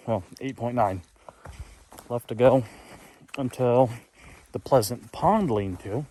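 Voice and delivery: talking while chewing seeds; words round a mouthful of seeds; mouth full. Real, not acted. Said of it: "Sorry, I'm eating sunflower seeds".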